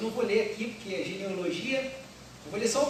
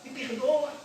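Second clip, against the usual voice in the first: repentant wife; 4 semitones higher than usual. Acted.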